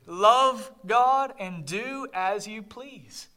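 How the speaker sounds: slow, lingering on each word; savored slowly. Shown as a demonstration. Pastor repeating Augustine's quote to savor it, slow. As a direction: let the quote sink in slowly. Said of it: "Don't you love that?".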